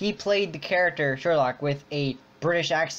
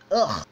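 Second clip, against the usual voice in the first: short groan of distaste; disgusted ugh; 3 dB louder than usual. Real, not acted. Complaining to friends about an awful accent, disgusted groan. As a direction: let out an exasperated "ugh".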